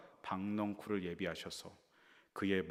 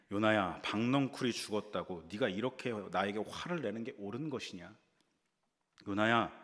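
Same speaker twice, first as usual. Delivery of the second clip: God's stern question. Acted. God rebukes Jonah in scripture.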